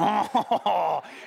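hammed-up French laugh of delight; mock French chortle. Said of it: "my whole family became French".

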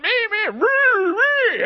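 high, loud wailing me me; bawling toddler. Retold or imitated. Pastor imitating his three-year-old bawling over a toy. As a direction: wail it like a crying toddler. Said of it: "He starts bawling".

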